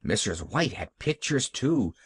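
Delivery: lightly voiced happy little girl; Pollyanna. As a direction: chatter on with a touch of childlike delight. Child Pollyanna chatters about carpets.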